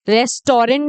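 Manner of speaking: "रेस्टोरेंट" with three syllables and rent ending; wrong pronunciation. Shown as a demonstration. Teacher telling learners what to avoid, mispronounced three-syllable "रेस्टोरेंट". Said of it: "नहीं बोलते इसको".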